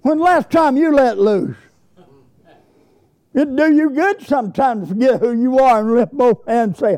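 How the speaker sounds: fervent pulpit preaching, rising in pitch; impassioned exhortation. Real, not acted. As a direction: urge the congregation to praise. Preacher exhorts congregation to praise.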